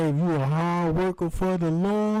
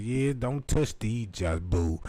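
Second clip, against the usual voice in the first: put-on old lady voice; 6 semitones lower than usual. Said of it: "She was like".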